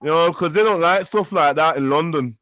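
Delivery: exaggerated Northern English accent; Manchester accent. Playing a girl heading back on the motorway, mock Manchester accent. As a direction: ramble on in a mock Manc voice. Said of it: "He's doing a Manchester accent".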